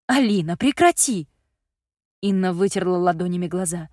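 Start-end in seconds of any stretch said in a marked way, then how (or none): 0.1-1.3 scolding. Acted. Mother scolds daughter.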